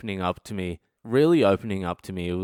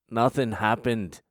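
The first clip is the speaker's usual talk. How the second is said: slower, drawn-out nothing happened; slow mock denial. Shown as a demonstration. To the audience, pretending innocence: slow mock denial. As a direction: stretch the denial out, unconvincing.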